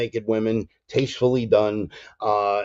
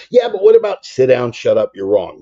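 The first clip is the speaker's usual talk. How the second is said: mock heckle; 3 semitones higher, 9 dB louder than usual.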